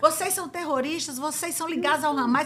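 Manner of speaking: high, accusing shouting. Retelling how the minister Ben-Gvir accused the detainees: imitating Ben-Gvir shouting. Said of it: "começa a gritar".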